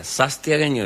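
"Sastiagueño" said with an S in place of the N; Sastiagueño mispronounced. Retold or imitated. Proud santiagueño says "Sastiagueño" with S for N. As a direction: swap the N in "Sastiagueño" for a hissed S. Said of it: "le sacaba una N para agregarle una S más".

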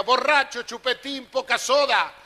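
high, loud scolding wife; shrill-free mock yell from the balcony; yelling insults. Wife yells down at drunk husband, loud mock scolding. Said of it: "Le gritaba a la vieja".

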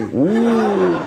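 high, drawn-out ooh; shocked "ooh". Acted. Neighbour hearing the crude word, shocked high ooh. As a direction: react with a scandalized ooh.

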